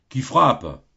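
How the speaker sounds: un soupçon de voix rauque et plaintive, plus forte; légère voix rauque et dolente derrière la porte. Acted. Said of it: "une voix rauque et dolente". (le gardien du purgatoire demande qui frappe, voix un peu rauque et dolente)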